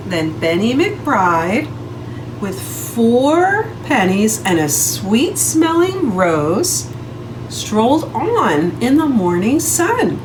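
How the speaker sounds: slow, sing-song read-aloud; storybook narration. A narrator's reading. Teacher reading a story to children, sing-song. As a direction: read it like a picture book to kids.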